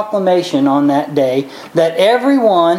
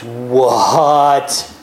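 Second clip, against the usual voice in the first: low, grave king putting an end to it; a king's final word, lower; stern king; 5 semitones lower, much slower than usual. Retold or imitated. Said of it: "the king goes".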